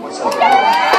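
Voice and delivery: squeaky question. Acted. Author voices Grover question.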